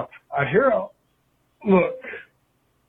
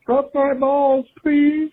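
higher, louder mock plea; 7 semitones higher, 4 dB louder, slower than usual. Caller joking about how the slang sounds, pitched higher. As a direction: whine it as a joke. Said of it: "That just sounds like".

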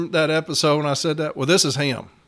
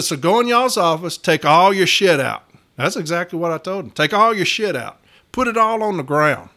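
raised, forceful orders; retold angry command. Retold telling HR off.

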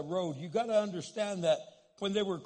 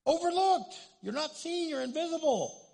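higher and louder, punching each short line; emphatic preaching; 10 semitones higher, 4 dB louder than usual. Real, not acted. Pastor stressing how unseen people feel, emphatic. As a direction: preach it out with force. Preacher drives home his point.

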